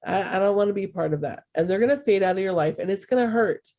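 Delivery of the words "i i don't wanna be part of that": higher-pitched mimicry of disapproving acquaintances; lightly mock their balking, pitch raised; imitated rejection. People in your life rejecting the healthier you, imitated rejection. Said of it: "that are gonna be like".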